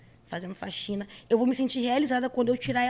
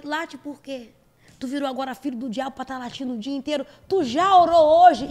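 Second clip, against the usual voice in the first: mock preacher rebuke; 6 dB louder than usual. Mock preacher scolding the song.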